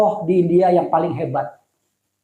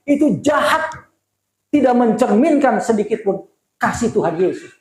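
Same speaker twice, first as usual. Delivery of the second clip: voicing Gandhi; 4 semitones higher than usual. Gandhi answers the pastor.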